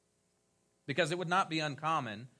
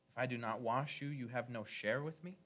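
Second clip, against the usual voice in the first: If I do not wash you, you have no share with me? asked with a rising, baffled tune; puzzled rising question. Shown as a demonstration. Preacher questioning the verse before his congregation, puzzled rising tone. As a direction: read it back as a bewildered question. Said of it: "What, what, what happened?".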